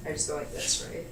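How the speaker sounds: nervous unsure voice; hesitant with shaky nerves; adrenaline shakes. Real, not acted. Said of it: "My hands are shaking".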